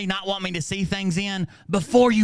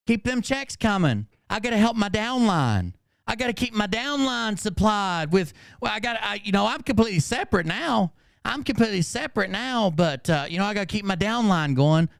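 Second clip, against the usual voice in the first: lightly voiced whiny mock of her excuses; a hint of a sing-song seller; 4 semitones higher than usual. Mimicking her excuses to the stream, lightly mocking.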